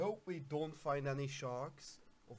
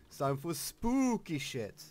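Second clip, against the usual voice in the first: louder, excited villain glee; gleeful shout; 7 dB louder than usual. Pretend. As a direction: announce it with wicked glee. Loud gleeful announcement, then hushed repeat.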